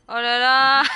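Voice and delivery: loud, drawn-out dismay. Real, not acted. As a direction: groan it out loud, exasperated. Dismayed exclaim while lost in game.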